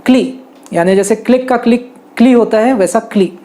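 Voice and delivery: "क्ली" said like the start of "क्लिक"; correct pronunciation. Shown as a demonstration. Teacher giving the right "क्ली" sound. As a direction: model "क्ली" crisply. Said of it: "It should be called as".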